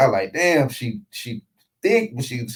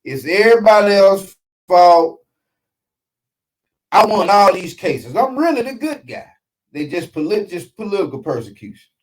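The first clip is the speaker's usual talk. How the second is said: Donald Trump impression; 5 semitones higher, 4 dB louder than usual. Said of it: "she sound like Donald Trump".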